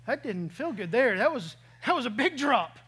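half-mocking nauseous voice, fading weak; airsick groan. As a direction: act out feeling sick on a bumpy flight. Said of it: "all of a sudden I go".

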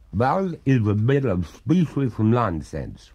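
slow, haughty ghostly retort; dismissive water ghost. Acted.

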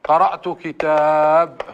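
كتاب ending on a silent b, slow; Rabi'a pause. Shown as a demonstration. Teacher shows how Rabi'a stop on the noun, slow. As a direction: say قرأت كتاب with no final a. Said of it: "ماذا يقول؟".

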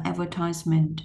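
American "advertisement", ad-ver-TISE-ment; American pronunciation. Shown as a demonstration. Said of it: "Thường thì mình đọc bên U S". (advertisement đọc kiểu Mỹ)

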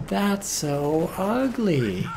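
high, very slow whiny voice; high drawn-out whine. Shown as a demonstration. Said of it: "repeated with changed voice".

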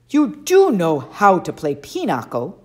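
slow, loud, doubting question; suspicious. A narrator's reading. Camp director quizzing Percy, slow and suspicious. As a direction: eye him with distrust as you ask. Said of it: "Mister D eyed me suspiciously".

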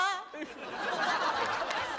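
a high, airy burst of laughter; high breathy laugh. Real, not acted. 岳父大笑. (高声气声大笑)

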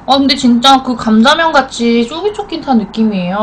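chewing while talking; words muffled by food; mouth full. Real, not acted. Seen 2: noodles eaten just before; lips pursed, mouth seems full while talking.

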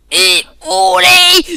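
slow drawn cheer. Real, not acted. Gamer celebrating a kill, slow loud whoop. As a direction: stretch the cheer out like you just won. Player cheers after an in-game success.

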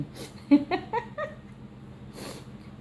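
soft, high, breathy laugh; airy giggle; quiet laugh. Real, not acted. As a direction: laugh under the breath at the cats. Mother laughing at the cats.

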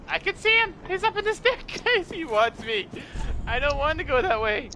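panicked screaming. Real, not acted. Chased by enemy.

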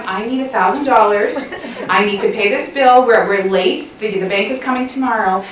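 mildly sweetened, measured request; saying it nicely. Shown as a demonstration. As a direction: ask for money nicely, with a light comic touch. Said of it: "as long as you say it nicely".

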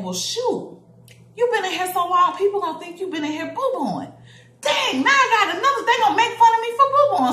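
hammed-up rising dismay; mock panic. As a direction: imitate a kid panicking inside her head. Retold child's panicked inner voice.

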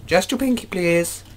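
pinky up, in a prissy high squeak; high posh falsetto. Pretend. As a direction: ask it like a fussy toff in falsetto. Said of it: "how dashing my British accent is".

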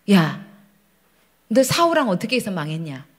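low, restrained rebuking voice; Holy Spirit. Acted. God stopping the praying pastor short, low voiced rebuke. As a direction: question gravely, without raising the voice. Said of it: "성령 하나님이 음성이 나한테 주시는".

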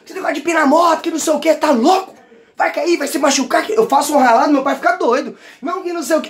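scolding father. Retold or imitated. Father scolds about wheelies.

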